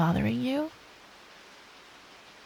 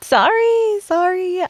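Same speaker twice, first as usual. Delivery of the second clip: laughing apology; 8 semitones higher, 8 dB louder than usual. Real, not acted. Apologizing while still laughing.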